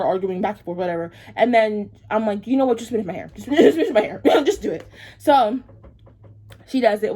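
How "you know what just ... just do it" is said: telling the stylist to just finish, laughing; exasperated laughing. Retold or imitated. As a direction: laugh it off in defeat.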